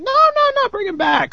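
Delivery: very high, squeaky imitation of begging; mock pleading guest. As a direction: mimic an eager fan in falsetto. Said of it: "other people are like".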